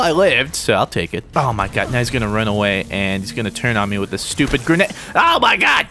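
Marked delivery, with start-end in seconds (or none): 5.1-5.9 high, startled exclamation; startled gamer cry; alarmed outburst. Real, not acted. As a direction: blurt it out, suddenly high. Startled by grenade in game.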